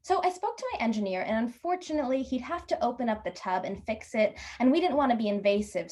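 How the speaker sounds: lightly voiced hesitant receptionist; a hint of customer-service delicacy; apologetic clerk. Clerk calls back with bad news.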